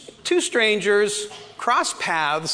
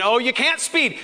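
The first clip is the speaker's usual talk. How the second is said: inner exclamation; 7 semitones higher than usual. Retold or imitated. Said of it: "I'm thinking".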